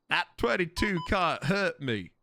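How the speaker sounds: slow American scoff; lightly caricatured American bravado; mock American accent. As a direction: brag slowly in a put-on American accent. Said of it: "And then the Americans would go".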